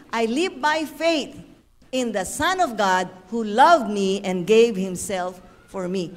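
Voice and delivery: slow, solemn Bible reading; scripture reading. Acted. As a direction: read the verse slowly, weighing each phrase. Reads scripture slowly.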